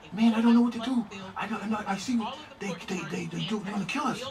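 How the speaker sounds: high, hushed imitation of panic; scared, panicking. Jamaican passenger fears the cops, high panicky mock whimper. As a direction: fret in a small high voice, building in alarm. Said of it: "this dude was so scared".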